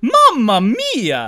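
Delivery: slow, high, loud Italian cry; cartoon Italian accent; Mario exclamation. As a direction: wail it like Mario in pain. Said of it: "whacks Mario on the head".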